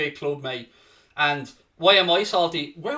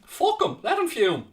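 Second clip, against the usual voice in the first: laughing dismissal; 10 semitones higher than usual. Real, not acted. Gloating over rival fan.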